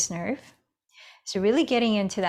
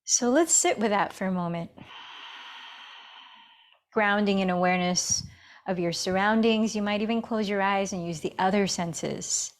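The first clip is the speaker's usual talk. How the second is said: unhurried meditation guidance with long pauses; guided meditation. Acted. Yoga teacher settling students into breath and awareness, guided meditation. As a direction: guide them inward, leaving space between phrases.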